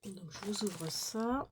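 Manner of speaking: hushed whisper while opening the envelope. Real, not acted. Whispering to viewers as she opens the mystery mail. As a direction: let the words drop to a secret whisper.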